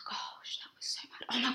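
hushed unvoiced whisper. Real, not acted. Friend whispering in disbelief about the wild day, hushed whisper. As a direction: drop to a breathy whisper. Whispered aside after story.

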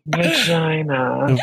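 slow, drawn-out vagina like a perfume ad; sultry perfume-ad vagina; perfume commercial voice. Shown as a demonstration. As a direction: purr vagina as if selling perfume. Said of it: "Like you're in a perfume commercial".

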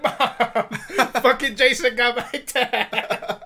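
put-on high, loud, drawn-out child's cry for mom; mock panicked wail. Scared kid reporting to mom, mock wail. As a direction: wail it in hammed-up panic, half laughing.

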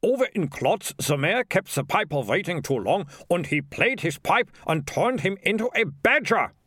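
high, anxious character voice; alarmed mayor. Acted. Mayor warns of the piper's revenge, high and alarmed. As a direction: tell it as a high-pitched warning.

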